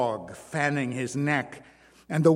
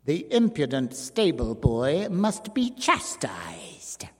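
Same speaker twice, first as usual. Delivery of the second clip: slow, breathy threat; menacing whisper. A narrator's reading. The dwarf condemns his rival in a whisper. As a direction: hiss the sentence slowly.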